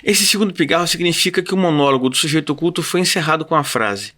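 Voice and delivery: deliberate literary reading, falling phrase ends; chronicle reading. Acted. Reader explains how the monologue was closed, deliberate chronicle reading. Reads the chronicle's ending aloud.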